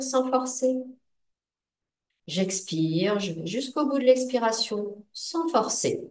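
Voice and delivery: measured breathing guidance with long pauses; guided meditation. Acted. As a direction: lead them calmly through each breath, phrase by phrase. Guide la respiration en relaxation. (méditation guidée, phrases posées et espacées)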